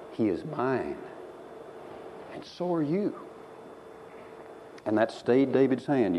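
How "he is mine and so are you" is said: softer, hushed "He is mine"; tender, quiet assurance; still small voice. Retold or imitated. Preacher voicing God's still small voice, softer. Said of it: "that still small voice of the Lord said".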